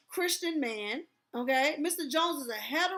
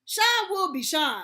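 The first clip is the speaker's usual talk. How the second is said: dismissive quote; 4 semitones higher, 4 dB louder than usual. Retold or imitated. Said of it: "responded to Mr Johnson's complaint with".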